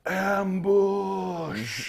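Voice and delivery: high, drawn-out goblin call; goblin alarm cry. Acted. Goblin turns to warn the others of intruders, drawn-out alarm call. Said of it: "he goes, and in goblin".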